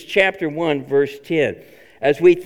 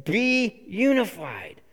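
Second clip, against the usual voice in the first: slow, softer loving appeal; tender appeal; 3 semitones higher, 3 dB quieter, slower than usual. Retold or imitated. Paul gently urging the church toward unity, slow. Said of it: "a hope in Paul that says".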